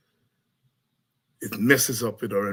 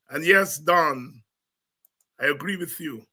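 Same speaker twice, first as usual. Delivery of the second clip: ordinary delivery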